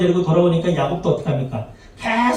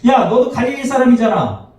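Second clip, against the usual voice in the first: mock accusing shout; accusing call-out; 3 semitones higher than usual. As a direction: point him out for his accent. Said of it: "사투리를 이제 억양이나 이런 걸 두고 알겠죠".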